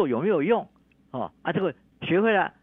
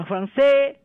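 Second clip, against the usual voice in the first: French words, pitch raised at the end; rising French tune; 9 semitones higher, 8 dB louder than usual. Shown as a demonstration. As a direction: lift the end like a French baby. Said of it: "后面的拉高". (法语语调，尾音上扬)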